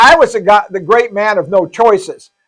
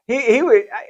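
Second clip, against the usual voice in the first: stuttering; 3 semitones higher, 5 dB quieter than usual. Real, not acted. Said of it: "I'm stuttering now".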